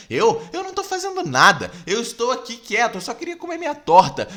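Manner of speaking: voz mais aguda e manhosa de falso inocente; o Coringa choraminga pela torta, bem mais agudo; Coringa se fazendo de inocente. Retold or imitated. (Coringa falso inocente, voz aguda e manhosa)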